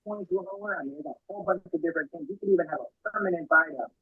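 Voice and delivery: muffled voice, as through a hand; words dulled and smothered. Real, not acted. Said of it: "It's very muffled".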